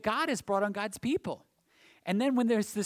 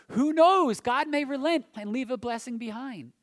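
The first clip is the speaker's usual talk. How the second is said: much louder, high cry on Who knows; Joel's urgent cry; 6 semitones higher, 8 dB louder than usual. Retold or imitated. Preacher quoting the prophet Joel as a loud, urgent plea. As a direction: proclaim it like a prophet pleading. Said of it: "Joel says".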